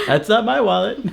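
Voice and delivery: high, laughing cartoon voice; Patrick impression. Quoting the SpongeBob episode in a high cartoon voice. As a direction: squeak it like Patrick. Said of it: "Patrick and Man Ray".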